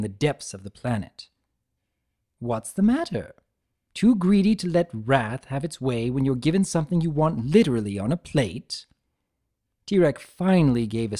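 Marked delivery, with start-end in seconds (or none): 2.4-8.9 playful trickster Discord. Acted. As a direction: tease him like a smug jester. Discord voiced in the story.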